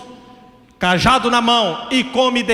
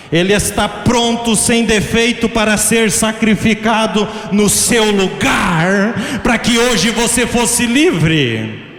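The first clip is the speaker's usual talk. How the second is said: fervent preaching; slower than usual. Real, not acted. Preacher telling the congregation of the sacrifice, fervent preaching. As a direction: preach it with drive, stretching the last phrase.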